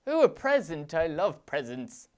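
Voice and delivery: excited. Real, not acted. Gleeful at in-game present.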